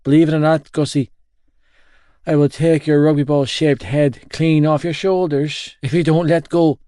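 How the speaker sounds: loud and indignant; heated threat. Acted. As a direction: threaten your mate at full voice. Gibsy threatens in an argument.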